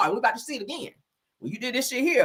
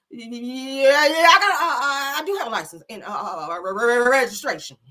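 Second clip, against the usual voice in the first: mock frightened stutter to a cop; hammed-up nervous driver; scared stammering; 3 semitones higher, 3 dB louder than usual. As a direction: stumble over every word. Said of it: "That be y'all ass scared as fuck".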